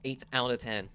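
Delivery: hushed whispered score. Acted.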